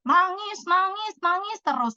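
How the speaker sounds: mock taunt, slightly high and singsong; retold teasing. Mak Diah mocking her friend for crying, lightly teasing. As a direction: imitate a friend poking fun. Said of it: "dia ngejek-ngejekin saya tuh".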